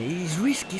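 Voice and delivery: ordinary talk, nothing marked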